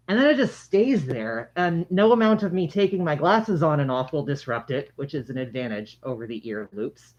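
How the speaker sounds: speaking through a face mask; muffled voice behind cloth mask. Real, not acted. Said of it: "talking through the mask".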